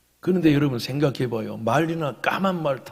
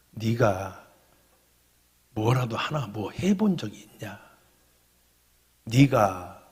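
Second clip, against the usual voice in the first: lightly voiced low, halting reproach; the Lord; 4 semitones lower, slower than usual. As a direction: question gently in a lowered voice, with pauses. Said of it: "주님이 저한테 이렇게 얘기하시대요".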